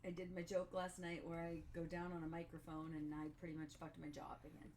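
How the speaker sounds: talking through jaw pain; with a sore jaw. Real, not acted. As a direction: mouth barely opening, sore jaw. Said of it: "I can't open my mouth all the way".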